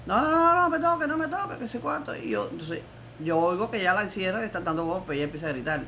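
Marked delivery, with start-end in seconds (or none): 0.1-2.2 retold screaming. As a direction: scream it out, begging not to be touched. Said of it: "oigo cuando ella empieza a gritar". (grito desesperado, agudo y fuerte)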